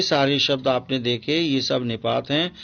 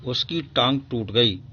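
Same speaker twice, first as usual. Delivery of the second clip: mild sympathy. Shown as a demonstration. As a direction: say it with a touch of pity. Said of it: "oh".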